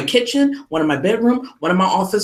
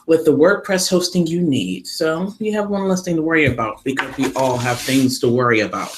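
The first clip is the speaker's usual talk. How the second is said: ad read. Acted. Sponsor ad read.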